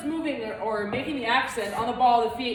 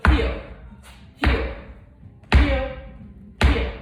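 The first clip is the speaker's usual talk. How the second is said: heel callout; 4 dB louder, slower than usual. Shown as a demonstration. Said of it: "let's go over a heel".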